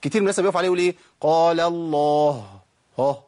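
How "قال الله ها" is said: slow قال الله with a separate puffed ها; detached final ha. Shown as a demonstration. Teacher imitates people stopping on it, detached final ha. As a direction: stretch قال الله, then add the ha apart. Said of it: "الضعيفة اللي في آخر لفظ الجلالة".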